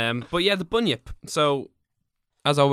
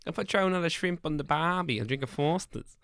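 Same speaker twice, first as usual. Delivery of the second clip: softer, hammed-up Australian; mock Australian accent; 5 semitones higher, 4 dB quieter than usual. Co-host joking about barbies, mock Australian accent. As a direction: play a stock Australian.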